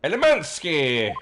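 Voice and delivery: a hint of a grand English detective; lightly voiced Sherlock Holmes. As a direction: play the lofty detective, unhurried. Reads Holmes's game lines.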